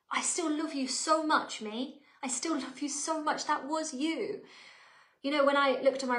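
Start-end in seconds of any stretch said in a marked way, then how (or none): 0.1-4.4 slow, tender reassurance to oneself; lightly acted, affectionate self-acceptance; loving self-talk. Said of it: "being able to lovingly hold up a mirror".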